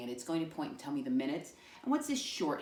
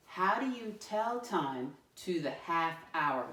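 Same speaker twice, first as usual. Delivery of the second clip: slow, clear reading of the question; slow model read; slower than usual. Shown as a demonstration. Teacher reading the question slowly first, before the class joins. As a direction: read it slowly so kids can follow. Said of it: "Let me read it the first time".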